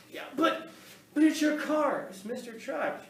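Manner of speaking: high, mocking voice of the objecting mother; mother objecting to the narrator, in a high mocking voice; mock indignant mother.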